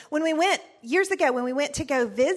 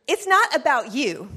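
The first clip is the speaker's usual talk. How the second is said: stern mom phrase; 5 dB louder than usual. Retold or imitated. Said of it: "That was my great phrase".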